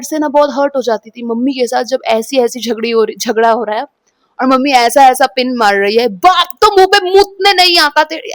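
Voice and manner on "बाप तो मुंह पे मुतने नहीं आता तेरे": a bit higher, mock taunting mother; imitating mom's cruel taunt. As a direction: jab at her like a bitter mother. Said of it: "ऐसे बोल रही है".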